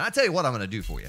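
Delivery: fast car salesman patter; hard sell ad; used car salesman. Acted. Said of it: "Sound like a used car salesman".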